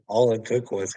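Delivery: normal talking voice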